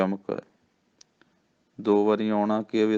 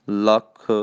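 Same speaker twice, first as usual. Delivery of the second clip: ਲੱਖ pressed tight and louder; ਲੱਖ said tight and forceful; 5 dB louder, much slower than usual. Shown as a demonstration. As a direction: clamp down on ਲੱਖ. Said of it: "ਲੱਖ ਕੱਸ ਕੇ ਬੋਲਣਾ".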